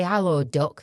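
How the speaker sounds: Yorkshire greeting, demonstrated; put-on Yorkshire hello; Yorkshire accent. Shown as a demonstration. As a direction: say it in broad Yorkshire. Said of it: "This one's Yorkshire".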